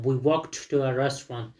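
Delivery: slow reading with "walked" as walkt; measured listen-and-repeat sentence, "walked" ending in T; model for repetition. Shown as a demonstration. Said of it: "listen repeat the sound and sentences".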